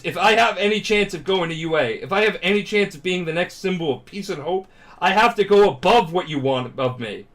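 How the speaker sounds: imitated earnest, strained insistence; determined plea. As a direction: press the point with acted determination. Acts trainee's determined plea.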